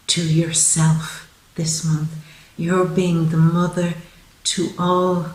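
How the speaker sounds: tender, hushed, nearly overcome; choked up with emotion. Real, not acted. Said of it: "I actually felt quite emotional there".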